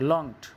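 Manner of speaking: "Longed" as one unbroken syllable; monosyllabic word demo. Shown as a demonstration. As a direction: model "Longed" in a single beat, the ending joined on. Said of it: "সুতরাং এটা monosyllabic word".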